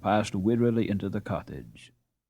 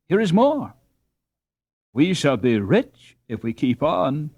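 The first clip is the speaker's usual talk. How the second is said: put-on eager boy; 6 semitones higher, 3 dB louder than usual. Boy eagerly offers money.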